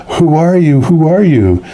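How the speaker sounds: high-pitched, bewildered mock questioning; acted astonished questioning. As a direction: imitate her astonished demand.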